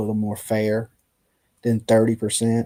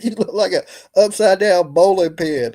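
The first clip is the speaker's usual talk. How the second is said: raised-pitch mock tirade; playful, higher-pitched jab; retold insult; 6 semitones higher, 4 dB louder than usual. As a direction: imitate an irate put-down, amused. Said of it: "This Asian dude goes off".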